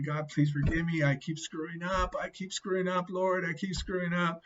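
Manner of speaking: repentant, imploring repetition; pleading prayer. Retold or imitated. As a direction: beg forgiveness, acting out a past prayer. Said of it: "I was praying".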